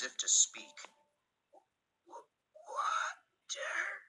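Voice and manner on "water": a strangled, very high creature rasp forced out; blurted monster croak. Acted. Mutated Thomas forcing out his only word, creature rasp. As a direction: squeeze one word out like a dying mutant. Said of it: "he managed to blurt out".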